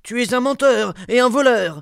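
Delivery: loud, high accusation; angry. A narrator's reading. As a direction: hurl the insult at him. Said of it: "dit le sénéchal en colère".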